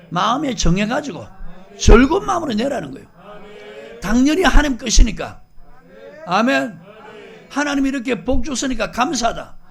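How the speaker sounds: loud, high, fervent preaching; preaching at full force. Real, not acted. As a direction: drive the point home to the congregation, loudly. (높고 큰 목소리로 열정적인 설교)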